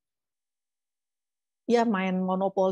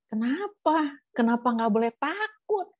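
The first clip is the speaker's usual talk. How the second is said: questioning God; 5 semitones higher, slower than usual. Retold or imitated. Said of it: "saya sempat bilang gini sama Tuhan".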